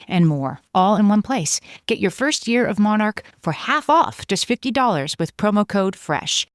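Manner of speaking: upbeat sponsor read. Acted. Host reading a Monarch sponsor ad, upbeat pitch. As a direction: sell it like a host ad. Reads an ad.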